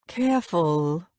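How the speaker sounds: slow, low warning. Acted. Lover warns her of a nearby reporter, low warning. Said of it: "The tone of his voice is a warning".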